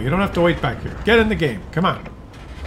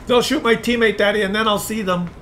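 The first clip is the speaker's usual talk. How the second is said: lightly voiced little kid; child talking to daddy; 5 semitones higher than usual. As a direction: explain it to daddy in a higher kid voice. Plays player as child.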